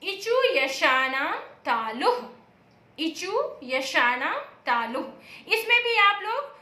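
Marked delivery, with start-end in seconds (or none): 0.0-2.2 slow sutra chant; slow recitation. Shown as a demonstration. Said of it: "इसके लिए सूत्र है". 3.0-5.5 slower sutra chant; slower recitation. Shown as a demonstration. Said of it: "इसके लिए सूत्र है".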